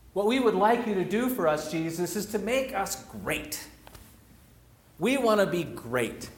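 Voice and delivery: mock-entitled disciples demanding power. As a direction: push the greedy demand hard, insistent. Disciples' demand voiced by preacher.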